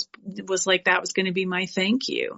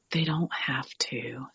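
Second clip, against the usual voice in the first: calm quiet reply; 6 semitones lower, 7 dB quieter than usual. Retold or imitated. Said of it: "you know what she said".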